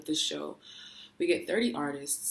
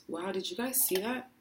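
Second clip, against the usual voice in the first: spooked; 4 semitones higher than usual. Real, not acted. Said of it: "I'm scared".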